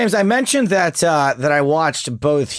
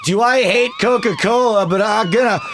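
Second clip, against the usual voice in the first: mock critic voice; 5 semitones higher than usual. Impersonating the critic.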